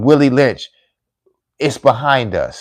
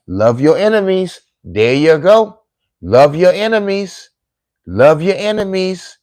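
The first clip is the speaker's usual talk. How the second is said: raised high, slow and insistent; fervent plea; 7 semitones higher than usual. Real, not acted. Speaker urging the audience to love enemies, fervent and raised. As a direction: preach it, pleading higher each time.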